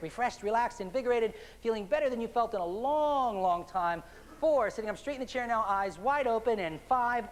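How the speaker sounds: building, energizing hypnotist count; waking count. Acted. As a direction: lift them out of trance step by step. Counting up out of trance.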